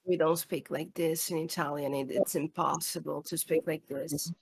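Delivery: low, quiet creaky fry; vocal fry. Shown as a demonstration. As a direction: demonstrate talking in vocal fry, low and soft. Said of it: "fry doesn't apply to".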